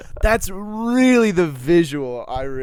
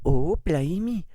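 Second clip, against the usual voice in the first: British exclamation; 3 semitones higher, slower than usual. Acted. Reacts to Welsh accent roll.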